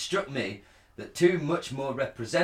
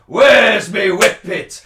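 much higher, much louder, slow Yorkshire yell; mock Yorkshire accent; 8 semitones higher, 16 dB louder, much slower than usual. Imitating English rugby fans chanting in a Yorkshire accent. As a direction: bellow it like a Yorkshire rugby fan. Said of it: "they were like".

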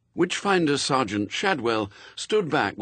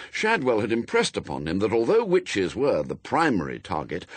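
usual speaking voice

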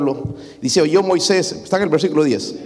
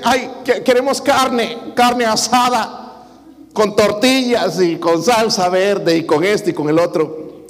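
high, drawn-out mock whine for carne asada; whining for meat; 5 semitones higher, slower than usual. Preacher to his church, mimicking the Israelites begging for meat, high slow whine. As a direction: beg for meat like a grumbling crowd, stretching the words.

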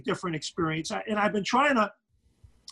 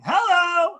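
big high shouted hello; catchphrase call; 11 semitones higher, 7 dB louder than usual. Shown as a demonstration. Announcer asked for his catchphrase, shouts it full out. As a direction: belt it like a courtside call. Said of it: "So I would probably say".

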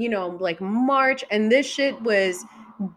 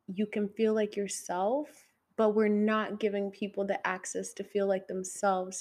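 hushed sincere; 8 dB quieter than usual. Real, not acted. A heartfelt plea for homeless people, softly hushed.

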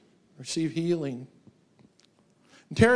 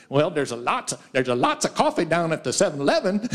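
put-on southern accent. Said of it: "in their southern accent".

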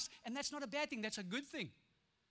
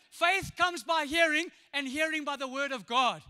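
slowed, weighty delivery; 3 semitones higher, 4 dB louder than usual. Acted. Preacher proclaiming scripture to the church. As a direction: lean into each word.

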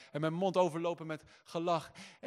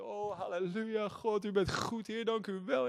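joyful praise; 4 semitones higher than usual. Retold or imitated. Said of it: "vond ik mezelf vol vreugde".

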